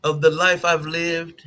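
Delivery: slow put-on theatrical voice; mock dramatic reading. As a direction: linger on it like a stage actor. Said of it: "continuing the dramatic reading".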